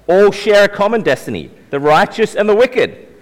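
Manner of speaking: lightly read-out scripture quote. Acted. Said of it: "he says".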